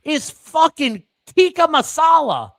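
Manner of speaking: mock outrage at Britain; incredulous rant. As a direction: sell it as outrageous. Ranting at Britain.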